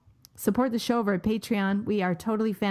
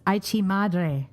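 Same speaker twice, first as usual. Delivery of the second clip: lightly put-on Mexican accent, higher at the end; mock Mexican accent; 4 semitones higher than usual. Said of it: "this is the racist part".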